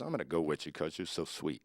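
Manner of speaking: butter him up, a touch sugary; all sweet. Retold or imitated. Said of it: "all sweet".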